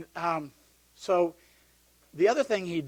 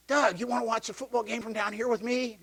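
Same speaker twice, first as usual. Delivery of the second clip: imitating a priest calling up to the stands, higher pitch; 6 semitones higher than usual. Priest calling Doug down from the stands, mock call. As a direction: call up the bleachers, a bit higher. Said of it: "yells up at me and says".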